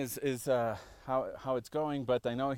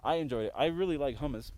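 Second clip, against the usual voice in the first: mouth full. Real, not acted. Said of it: "I'm talking with my mouth full".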